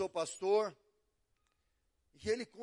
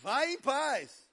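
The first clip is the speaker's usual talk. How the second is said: louder and higher, dragging out vai em paz; hammed-up send-off; mock dismissal; 5 semitones higher, 8 dB louder, much slower than usual. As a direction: shoo them off with exaggerated sweetness.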